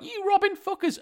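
high mock indignant cry; fake-outraged jab at Nintendo; mock outrage. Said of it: "They were like".

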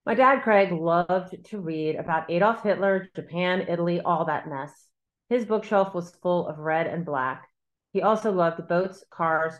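measured, deliberate reading of her own novel; a calm, steady author's reading; story narration. A narrator's reading. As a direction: read it like an author at a book event. Author reads her novel aloud.

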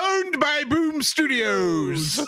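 slow, high, drawn-out punchline; laughing. Real, not acted. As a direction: stretch the words out through laughter. Joking add-on amid laughter.

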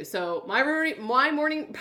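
stumbling, sore jaw; words tripping, jaw aching. Real, not acted. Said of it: "talking is hard today".

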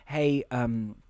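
low, soft, hesitant confession; imitated awkward apology. Julianne Moore's character awkwardly apologizes.

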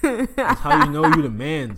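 laughing through a brag. Real, not acted. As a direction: chuckle through the boast. Bragging about house, laughing.

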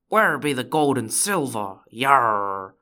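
storybook pirate demanding loot; pirate talk ending in a drawn-out yar. Acted. Pirate skit, hunting for loot.

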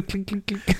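high little dice clinks; clinking noise. Retold or imitated. Listener imitating shaken dice, high clinking.

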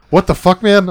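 high, loud mock disbelief; loud retold astonishment; imitating incredulous friend. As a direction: exclaim it like a buddy cracking up. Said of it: "He just fucking belts out laughing".

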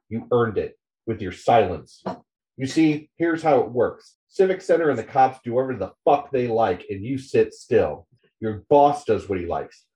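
bitter, scornful read of a rant; dramatic column reading. Acted. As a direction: read it like an angry columnist lecturing readers. Reads out Spider's column aloud.

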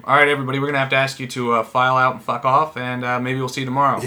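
loud announcer voice over the PA; mock intercom announcement. Friend imitating an arena announcer over the intercom. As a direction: play the arena announcer telling fans to leave.

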